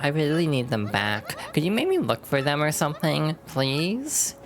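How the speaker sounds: put-on high, bubbly Valley Girl uptalk. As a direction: play it like a ditzy Valley Girl. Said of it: "I feel like I'm losing the Valley Girl voice".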